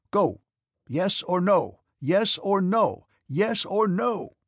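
father shouts a demand at his departing daughter; shouting. A narrator's reading. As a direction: drive her out with each word. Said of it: "He still shouted".

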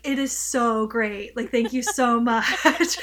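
stretched-out, laughing American gush; over the top. Retold or imitated. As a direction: overemphasize every word like a gushing tourist. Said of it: "really over the top".

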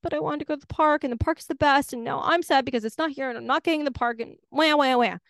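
hammed-up doggy sulk ending in mock wails; whiny sad dog. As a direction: whine like a pouting dog denied the park. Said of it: "the dog's all sad".

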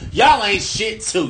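angry rant. Real, not acted. Ranting at highway troopers.

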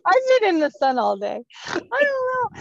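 high laughing reply. Real, not acted. Laughing at the joke.

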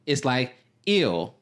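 slow drawn-out "eel" like a gag; grossed out. Shown as a demonstration. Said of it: "not ready for the eel taste".

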